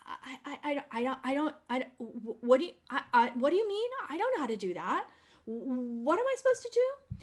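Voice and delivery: stammering mock confusion, rising to a high squeak; playing dumb. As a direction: fake helplessness with nervous stutters. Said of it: "Gretel plays dumb".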